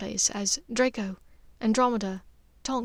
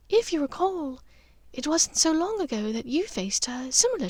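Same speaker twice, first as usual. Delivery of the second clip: a hint of a calm, steady mother, a touch higher; Narcissa, lightly voiced; 4 semitones higher than usual.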